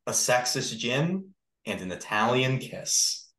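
slow storybook title read; storyteller reading. Pretend. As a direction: read it slowly to the class. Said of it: "like, you're reading to the class".

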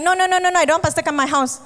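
quick mock-stubborn refusal. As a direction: imitate someone shooing off the pastor. Mimicking stubborn listener refusing pastor.

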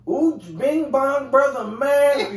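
high, loud hammed-up cartoon voice; mock Robin Williams riff. Host mocking Robin Williams's impressions, high and loud hammed-up. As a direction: ham it up like a manic comic. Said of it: "racist impressions".

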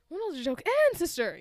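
exasperated plea. Retold or imitated. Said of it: "I'm just like".

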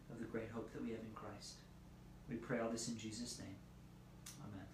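hushed, earnest prayer to God. Real, not acted. Pastor prays before the reading.

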